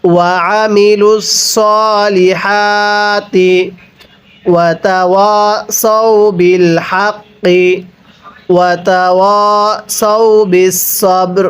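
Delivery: slow melodic tilawat, drawn-out vowels; slow Quran recitation. Shown as a demonstration. Teacher recites the verse for students, slow melodic chant. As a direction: chant the verse slowly and evenly. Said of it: "একবার revision দিব".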